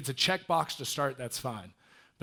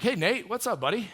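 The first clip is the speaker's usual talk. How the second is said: louder, higher hey buddy; friendly greeting; 9 semitones higher, 7 dB louder than usual. Retold or imitated. Speaker greeting Nate at the gym, loud and high. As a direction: welcome him in brightly. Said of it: "I'm like".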